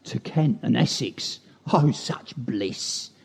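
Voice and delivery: Kent and Essex accent; Thames estuary accent. Shown as a demonstration. Poet heading down the Thames, Kent and Essex accent. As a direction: speak like an Essex local. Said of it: "they speak like this".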